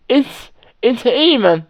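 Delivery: put-on a half-hearted English-accented shout; bad English accent. Friend pointing out the man to police, bad English accent. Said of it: "ma copine crie".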